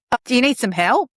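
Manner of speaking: pushy offer. Shown as a demonstration. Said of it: "Completely different energy".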